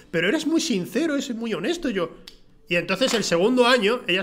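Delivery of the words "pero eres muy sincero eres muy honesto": high, sing-song praise; lightly voiced gushing teacher. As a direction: coo over him like a fond teacher.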